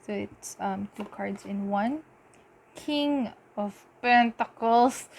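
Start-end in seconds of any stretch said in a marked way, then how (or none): 2.7-5.1 slow, drawn-out card announcement; slow, theatrical card name; odd dramatic announcement. Real, not acted. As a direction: announce "King of Pentacles." slowly like a reveal. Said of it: "Why did I say it like that?".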